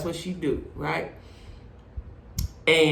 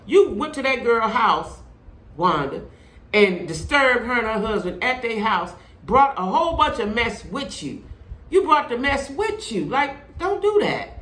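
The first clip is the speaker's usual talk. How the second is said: higher-pitched, exasperated telling-off; heated scolding; 5 semitones higher, 4 dB louder than usual. Pretend. Host scolds absent Wanda for bringing mess, heated and high. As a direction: scold her as if she were right there.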